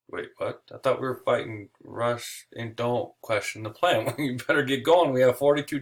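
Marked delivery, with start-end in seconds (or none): 0.1-4.1 much softer, slow baffled mumble; a lost soldier muttering to himself; confused. Retold or imitated. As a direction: soldier puzzled by the invasion order.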